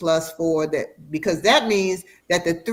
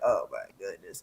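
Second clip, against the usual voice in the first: shocked; 12 semitones lower, 10 dB quieter than usual. Retold or imitated. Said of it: "I was like".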